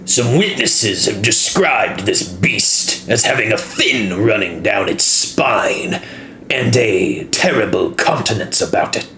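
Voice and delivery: lightly gruff dwarf merchant; a hint of a gruff old dwarf. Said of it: "The dwarf says in a gruff voice".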